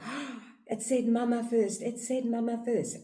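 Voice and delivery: high, delighted mom voice; thrilled mother. Retold or imitated. Mother thrilled her baby said mama first, high and delighted. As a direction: gush over the first word.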